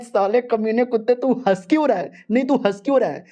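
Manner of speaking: put-on angry girl.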